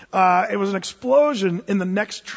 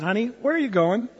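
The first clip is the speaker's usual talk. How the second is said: laughing question; 2 semitones higher than usual. Retold or imitated. Laughing at wife bolting.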